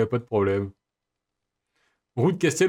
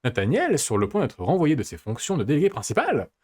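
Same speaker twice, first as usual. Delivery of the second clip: annonce d'épisode. Acted. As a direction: lecture théâtrale de bande-annonce, mots bien appuyés. Lit le résumé de l'épisode suivant. (narrateur de résumé, intonation très modulée)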